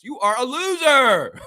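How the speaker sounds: slow, loud, contemptuous; scornful verdict; slow insult. Real, not acted. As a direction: spell out the insult. Rant insult.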